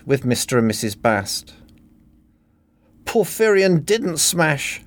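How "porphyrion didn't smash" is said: mock sobbing. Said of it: "Helen sobbed".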